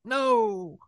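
high, drawn-out hammed-up denial; mock disbelief. Townsperson refuses to believe Bernie did it, mock disbelief. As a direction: stretch it out high, feigning shock.

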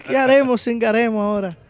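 hammed-up grieving cry; milk the fake mourning for laughs; mock wail. Retelling the son's lament to friends, hammed-up wail. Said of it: "Giovanni siempre salta con una vaina".

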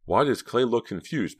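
a touch of fear; mounting fear. A narrator's reading. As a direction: wonder anxiously. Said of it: "her fear beginning to mount again".

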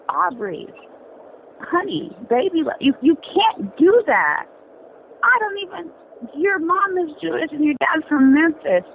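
mock-sweet start, rising into exasperation; exasperated scolding. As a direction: scold him like a fed-up friend. Acted scolding addressed to a rapper.

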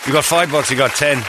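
light Irish cadger; Ray, Irish accent. Acted. Old trainer bargaining for cash, light Irish accent. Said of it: "He turns Irish".

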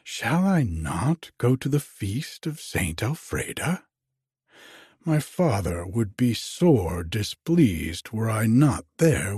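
lightly voiced, earnest young maiden; a hint of a maiden's protest, lilting up and down. Iseult answering Harold about the feast, mildly protesting.

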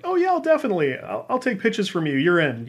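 retold eager yes, starting high; lightly acted enthusiastic reply, high at first; eager acceptance. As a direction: jump up high on the opening, then settle.

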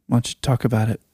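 gentle counselor easing a client; therapist voice. Pretend. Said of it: "Do you like my therapist voice?".

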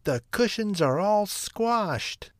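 very high, slow, dismayed mother bear; exclaiming Mama Bear. A narrator's reading. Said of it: "Mama Bear exclaimed".

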